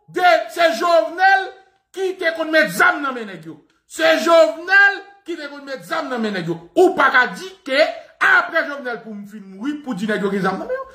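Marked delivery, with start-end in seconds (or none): 0.1-6.7 mock shout. Shouting the accusation at the crowd. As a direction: shout it out like a rant.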